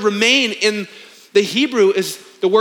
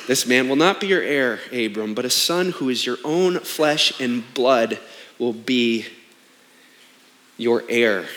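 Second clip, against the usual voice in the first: voice of God; 10 semitones lower, 4 dB quieter than usual. Acted. God's word voiced to Abram.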